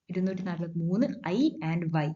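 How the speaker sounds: slow, spaced ഐ and വൈ said to rhyme; rhyming emphasis. Shown as a demonstration. Teacher drilling a memory rhyme for students, slow and deliberate. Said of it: "ഐ, വൈ ഒരേപോലെ pronounce ചെയ്യുന്ന ആലോചിച്ചാൽ മതി".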